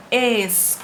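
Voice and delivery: ESCOLA with the CO stretched long; stressed syllable drawn out. Shown as a demonstration. Teacher shows the class the tonic syllable, long stressed CO in ESCOLA. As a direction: chant ESCOLA, holding the middle syllable CO. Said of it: "Qual a sílaba tônica?".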